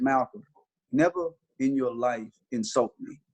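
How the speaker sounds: calm, slow and firm. Retold or imitated. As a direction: lay it down slowly without heat. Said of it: "And I was very calm".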